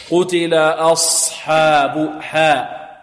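slow "أصحاب حاء" with a balanced open "hā"; medium fatha. Shown as a demonstration. Teacher modelling medium opening, slow open "hā" in "حاء". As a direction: hold "حاء" open, neither thick nor tilted. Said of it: "فتح متوسط".

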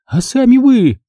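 high, loud squeal; shriek. A narrator's reading. Margo shrieking back at Engel. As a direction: shriek it at him. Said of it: "взвизгнула она".

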